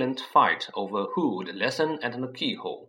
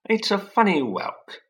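Vernon's voice; 9 semitones higher, 5 dB louder than usual. Acted. Vernon reads postcard.

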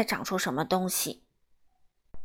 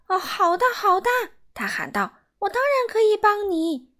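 frantic eager cry; 10 semitones higher than usual. Acted. Miser frantically agreeing to the old man, high eager cry. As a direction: gush out the promise in a panic.

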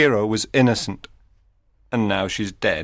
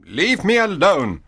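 rough; 9 semitones higher than usual. A narrator's reading. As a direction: shove him off with words. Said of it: "Antonio said roughly".

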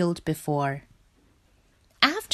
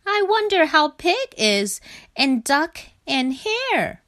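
high, lingering homesick frog voice; wistful; 9 semitones higher than usual. A narrator's reading. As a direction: list absent friends longingly, slowing at the end. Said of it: "he said wistfully".

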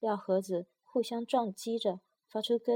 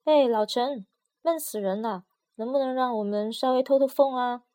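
loud, raised call through the box lid; 3 semitones higher, 8 dB louder than usual. A narrator's reading. 闷在盒子里的药丸大声向外面的老陈喊话. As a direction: shout to be heard outside. Calling out to merchant outside.

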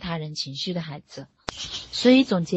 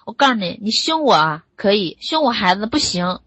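loud, forceful re-enacted warning; fierce protective outburst, acted out; retold angry yelling; 8 dB louder than usual. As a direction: act out yelling back at a spouse. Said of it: "我就会跟他吼".

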